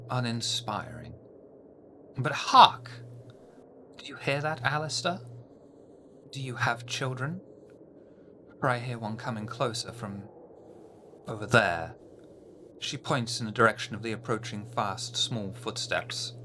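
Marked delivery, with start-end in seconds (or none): 0.1-1.1 breathy contempt; whispered disdain. Acted. Harpy disdain. 2.2-11.9 mock dramatic call; theatrical harpy.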